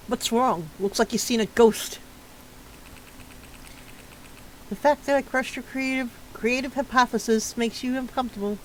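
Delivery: taunting exchange, lightly acted; character banter. Streamer voicing both characters in a taunting exchange, lightly acted. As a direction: trade barbs with the other character.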